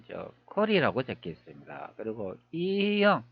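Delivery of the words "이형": 이형 drawn out slowly, pitched higher; tentative reading. Shown as a demonstration. Presenter puzzling over a name's reading, slow tentative sounding-out. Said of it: "이형이라고 읽어야 되나요".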